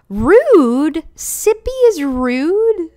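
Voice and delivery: loud, slow, high disbelief; mock offense. Player mock-offended that the dog is called rude. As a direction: play outraged on the dog's behalf.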